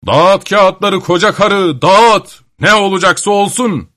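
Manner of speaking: high-pitched, emphatic order to the witch; defiant command. A narrator's reading. Grandfather dares the old witch to deal, defiant and emphatic.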